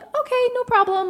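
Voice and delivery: pitched well up, eager to please; chirpy okay to the bouncer; high meek compliance. Retold or imitated. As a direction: say it brightly, no trouble at all. Retelling own meek compliance.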